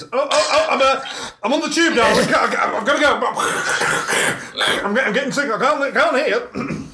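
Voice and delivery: laughing, hammed-up flustered husband; mock excuse on the phone. A man caught out by his wife, fumbling excuses. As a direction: fake a bad line to get off the call. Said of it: "caught with my trousers around".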